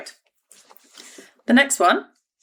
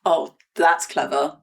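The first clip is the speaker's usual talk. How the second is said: slow, low-key praise that sounds sarcastic; understated praise, easily heard as sarcasm; unintentionally sarcastic; 4 semitones lower than usual. Real, not acted. Quizmaster complimenting a player's wordplay, sounding sarcastic. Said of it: "sounded really sarcastic there".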